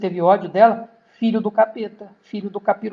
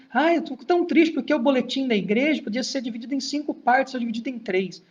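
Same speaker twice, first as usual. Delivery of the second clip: mock whiny member; 2 semitones higher than usual. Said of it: "umas tristeza boba".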